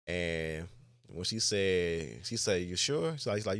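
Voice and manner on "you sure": higher voice, questioning lift; retold doubtful question, pitched up; concerned check-in. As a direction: imitate a supervisor gently double-checking. Supervisor gently pressing upset worker.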